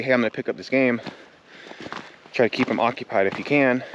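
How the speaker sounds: breathless, puffing between words; out of breath. Real, not acted. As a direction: talk while out of breath. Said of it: "Sorry, I'm out of breath".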